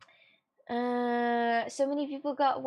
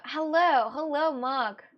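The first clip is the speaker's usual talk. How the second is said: louder, higher greeting hello; calling out hello; 3 semitones higher, 4 dB louder, slower than usual. Real, not acted. Streamer greets Mark in chat with a loud hello. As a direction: call out to get Mark's attention.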